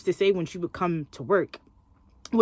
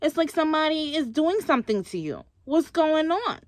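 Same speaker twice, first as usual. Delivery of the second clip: mock prying coworker; 7 semitones higher than usual. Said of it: "She's like".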